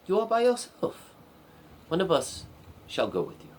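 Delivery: lightly voiced guard, leaping up in pitch; a hint of an official, pitch swinging high; city guard. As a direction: lecture the princess as her worried guard. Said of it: "the two guards protecting the city gate said".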